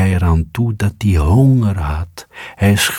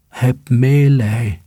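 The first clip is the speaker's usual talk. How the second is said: high, slow squeaky plea; pleading mice; 6 semitones higher, slower than usual. A narrator's reading. Trapped mice begging the cat, high slow squeaky plea. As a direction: beg for mercy like tiny mice. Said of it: "riepen ze tenslotte".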